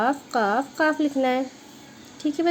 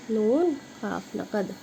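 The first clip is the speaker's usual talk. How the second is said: slow spelling; 3 semitones lower, 6 dB quieter, slower than usual. Shown as a demonstration. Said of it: "जैसे ये करके नकद".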